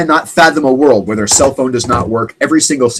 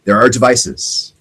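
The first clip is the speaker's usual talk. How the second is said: slow reveal; slower than usual. Acted. Dramatic reveal of jamming devices.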